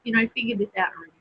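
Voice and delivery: talking while chewing; words round a mouthful of pastry; mouth full. Real, not acted. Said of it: "I'm gonna talk with my mouth full".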